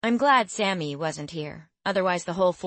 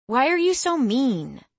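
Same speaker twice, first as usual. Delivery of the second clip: higher, louder hurt outburst; upset outburst; 6 semitones higher, 5 dB louder than usual. A narrator's reading. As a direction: fire it back at her. Girl confronts cruel tutor.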